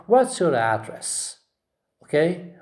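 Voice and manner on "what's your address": "address" stressed on AD; strong AD in "address", then fall; first-syllable stress. Shown as a demonstration. Teacher models the question for students, stressing AD in "address". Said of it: "So we say".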